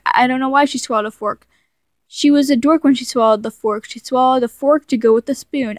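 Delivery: lightly sing-song rhyme reading; reading a childhood rhyme aloud, lightly rhythmic. Acted. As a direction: read the old nursery-style verse with a bouncy beat. Reads her childhood rhyme aloud.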